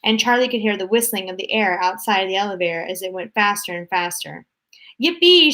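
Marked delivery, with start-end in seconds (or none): 5.0-5.5 very high, very loud whoop; joyful shout. A narrator's reading. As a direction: whoop like on a rollercoaster. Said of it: "shouted Grandpa Joe again".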